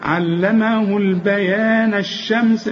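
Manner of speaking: slow Quranic recitation joining the verse; joined recitation. Shown as a demonstration. Teacher reciting the verse joined, slow tajweed. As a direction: recite it joined in one breath, slowly. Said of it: "شوف، ده إذا وصلنا".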